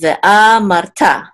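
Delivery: ve'amarta with long a and full final ta; accents on a and ta. Shown as a demonstration. Teacher showing both accent marks, ve'amarta stressed on a and ta. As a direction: hold the a, land on ta in ve'amarta. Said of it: "This is the main accent mark right here".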